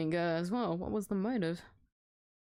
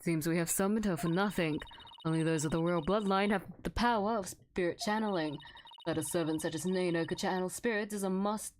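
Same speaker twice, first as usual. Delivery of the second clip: haughty queen voice; 5 semitones lower than usual. Acted. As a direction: sneer down at the court. Voicing the queen.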